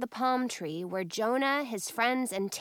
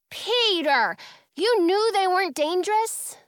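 high, loud accusing question; indignant; 8 semitones higher, 6 dB louder than usual. A narrator's reading. Girl confronts Peter over his joke, indignant. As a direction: confront him, outraged.

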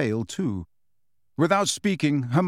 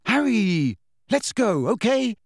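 more forceful; 9 semitones higher than usual. A narrator's reading. Hermione urging Harry away from the veil, forcefully. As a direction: insist he come away now. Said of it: "said Hermione more forcefully".

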